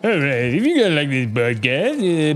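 ordinary delivery

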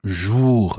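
jour with a rounded French vowel. Shown as a demonstration. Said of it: "sounds very much like jour".

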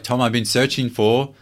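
a hint of an eager woman on the phone; lightly voiced woman caller. Woman offering Tom a voiceover job, lightly imitated. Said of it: "she's like".

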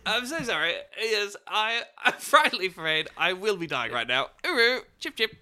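high, hammed-up upper-class gent; a posh Englishman politely apologising for dying; posh British toff. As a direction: overdo it like a stiff-upper-lip aristocrat. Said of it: "the most British thing".

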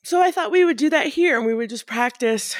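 talking through a yawn; words stretched by a yawn. Real, not acted. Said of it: "Now I'm yawning".

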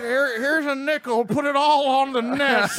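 put-on slow, loud Ethiopian accent. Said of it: "can you do Ethiopian voice one more time".

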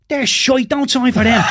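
high, loud mock holler; imitated shout. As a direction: yell the warning like a man shouting from a passing car. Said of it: "and he's shouting".

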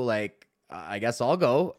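drawn-out, slow shrug of a line; reluctantly volunteering; slow resigned. Retold or imitated. Comedian to fellow comic before going on, slow and resigned.

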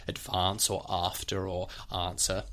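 RP long 'ah' in advance, after, answer; RP accent. Shown as a demonstration. Teacher listing examples of the R P sound, RP accent. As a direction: list the words in RP. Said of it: "an R P, you would say".

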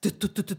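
rapid 'dut dut dut' pulse; imitated heartbeat. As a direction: tap out a racing heartbeat with your voice. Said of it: "hörde man hjärtat". (härmade hjärtslag)

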